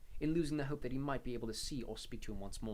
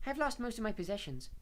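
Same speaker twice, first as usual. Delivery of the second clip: serene; 10 semitones higher, 4 dB louder than usual. A narrator's reading. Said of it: "said Luna serenely".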